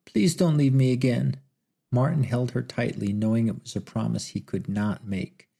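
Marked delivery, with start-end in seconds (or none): 0.0-1.4 higher, pleading through tears; a touch of sobbing pleading. Acted. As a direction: beg him not to leave, crying. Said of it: "sobbing wildly".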